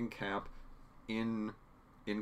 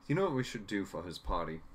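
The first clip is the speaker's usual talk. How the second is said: Charles/character. Retold or imitated. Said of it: "I still can't do his accent".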